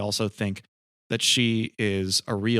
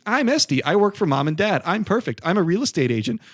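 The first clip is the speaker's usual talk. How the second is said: high-pitched, loud mock tirade; imitated sister's yelling; 8 semitones higher, 4 dB louder than usual. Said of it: "Alana's yelling at Esty saying".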